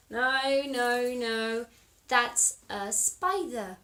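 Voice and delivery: loud insistent no, slow at the end; little monkey crying out no; monkey's loud protest. Acted. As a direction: protest it's not mum.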